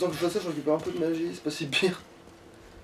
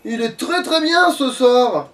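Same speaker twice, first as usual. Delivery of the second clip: savouring drawl; 6 semitones higher, much slower than usual. Pretend. Savouring the new spell, repeated.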